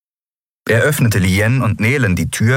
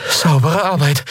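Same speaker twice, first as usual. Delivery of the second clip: higher, out-of-breath praise; panting, grudgingly impressed; 8 semitones higher than usual. A narrator's reading. Endriel to Kero after the fight, gasping and grudgingly impressed. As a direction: pant out reluctant admiration. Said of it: "keuchte sie, widerwillig beeindruckt".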